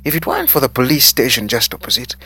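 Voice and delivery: loud, high, indignant telling-off; angry scolding. A narrator's reading. Manager scolding waiter for leaving the place open, angry. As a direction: lay into him, pitch climbing towards the end.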